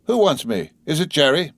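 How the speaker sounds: high-pitched, tentative questions; understated timid passenger; mildly quavering. A narrator's reading. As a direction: call out with slight nervousness. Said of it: "with mildly quavering speech".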